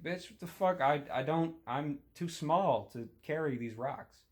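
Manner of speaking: high, exasperated squeal, slowing at the end; mock protest. Comic voicing himself pelted with rocks, high mock outrage. Mock reply to rock thrower.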